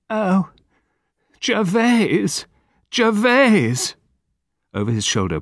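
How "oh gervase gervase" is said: high wailing moan of grief; shuddering moan. A narrator's reading. Wife crying out at her husband's body, long shuddering moan. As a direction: wail the name in shock, growing louder. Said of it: "long, shuddering moan from Lady Chevenix Gore".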